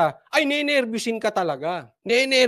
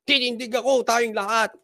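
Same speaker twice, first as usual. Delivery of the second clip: slightly raised mimicking voice; mock raised voice; 3 semitones higher than usual. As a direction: imitate a speaker lifting their voice. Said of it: "Pataas pa boses eh". (panggagaya ng tumataas na boses)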